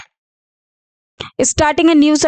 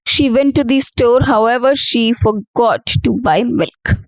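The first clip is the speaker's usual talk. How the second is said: full sentence first, then However opening a new slow sentence; correct example; slower than usual. Shown as a demonstration. Teacher reads the corrected sentence to the class, slowly. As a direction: read She went to the store, stop, then However, she forgot to buy milk. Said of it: "Uh, correct".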